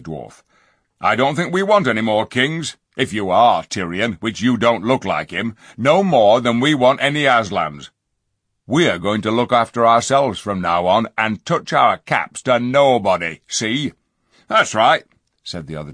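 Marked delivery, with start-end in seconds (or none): 1.0-13.9 gruff, fed-up dwarf; scornful dwarf. A narrator's reading. Griffle defies. 14.5-15.0 gruff chorus. A narrator's reading. Dwarfs agree.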